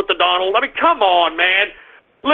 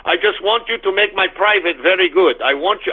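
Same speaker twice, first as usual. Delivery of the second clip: lightly put-on Russian accent; 4 semitones lower than usual. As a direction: give the blunt demands a hint of Russian. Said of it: "I'm talking like a Russian".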